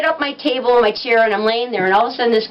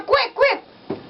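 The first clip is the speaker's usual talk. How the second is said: urgent call; 11 semitones higher than usual. Retold or imitated. Urgently calling others over.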